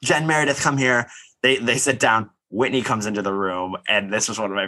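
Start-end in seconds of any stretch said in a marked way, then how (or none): 0.0-1.1 higher-pitched beckoning, retold; mock calling out. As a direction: imitate someone summoning two friends. Acting out calling friends over.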